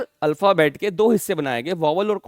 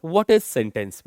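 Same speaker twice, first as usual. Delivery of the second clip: 1 slow question; 2 semitones lower, much slower than usual. Shown as a demonstration. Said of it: "posing question slowly".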